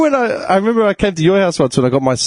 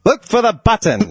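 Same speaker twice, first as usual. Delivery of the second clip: higher, hammed-up instruction; Jon Lovitz; 5 semitones higher than usual. Comedian as car voice explaining push-button start, hammed-up impression. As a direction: play a theatrical talking car. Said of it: "John Lovett's doing that voice".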